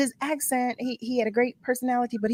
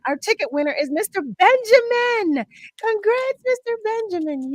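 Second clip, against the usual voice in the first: high, ringing prize announcement; celebratory, high-pitched congratulations; excited winner announcement; 12 semitones higher than usual. Real, not acted.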